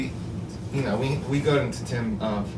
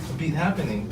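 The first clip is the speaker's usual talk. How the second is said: put-on Japanese accent; 3 semitones higher than usual. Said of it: "in a Japanese accent".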